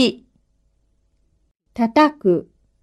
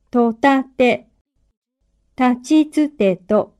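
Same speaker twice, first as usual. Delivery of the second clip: slow, syllable by syllable; dictating. Shown as a demonstration. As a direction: read each syllable slowly for dictation. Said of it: "かなを使って書き取ってください".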